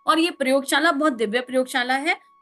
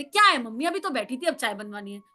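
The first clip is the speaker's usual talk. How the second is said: talking back; 3 semitones lower, 3 dB quieter than usual. Retold or imitated. Daughter-in-law talking back to mother-in-law, sulky retort. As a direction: retort that sinks to a sulky mumble. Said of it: "पलट के कह दे".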